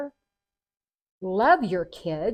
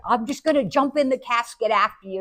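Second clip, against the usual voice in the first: playful vow; 3 semitones higher, 6 dB louder than usual. Retold or imitated. Daughter vowing to follow her dad, playful. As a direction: say it as an eager, mock-dramatic promise.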